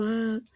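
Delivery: "Z" as a long buzzing zzz; French Z. Shown as a demonstration. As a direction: draw "Z" out as a voiced hum on the teeth. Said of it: "va a sonar a la Z francesa".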